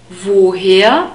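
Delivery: Woher with a long O and rising end; questioning "voh-HAIR" for Woher. Shown as a demonstration. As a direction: lengthen the O in Woher, lifting at the end. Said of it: "a long O sound".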